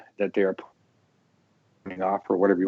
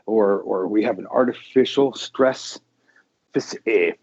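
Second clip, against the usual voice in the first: nerd voice. Shown as a demonstration. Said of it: "from my nerd voice, my annoying nerd voice".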